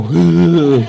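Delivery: loud, high, slow mocking jab; mock exasperated. Husband mocking his wife after the lunch, loud and high. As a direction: rub it in, exasperated and smug. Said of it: "I looked at her and I go".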